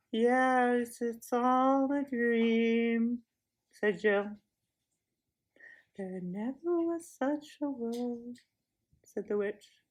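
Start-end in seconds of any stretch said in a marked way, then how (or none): 0.1-3.2 very slow, dreamy repetition; dazed echo. Acted. Jill repeats enchanted. 6.0-8.4 slow, softer spell-casting; lulling. Acted. Witch lulling.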